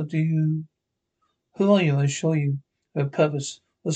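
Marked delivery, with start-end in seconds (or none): 1.6-2.0 frightened. Acted. Frightened by stranger.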